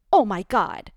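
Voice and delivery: horrified outburst; shocked. A narrator's reading. Mortified lady reacting to the news, loud shock.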